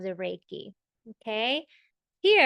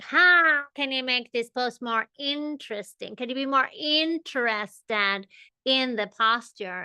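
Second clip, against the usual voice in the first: imitating her yoga teacher; 2 semitones higher than usual. Yoga teacher pushing a packed room, lightly imitated commanding voice. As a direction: mimic a small but commanding teacher, only lightly. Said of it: "this is how she sounded".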